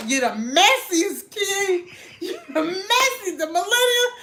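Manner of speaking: giggling through a mock scolding; half-laughing as she scolds the messy youngins. Mom scolding young stylists, laughing.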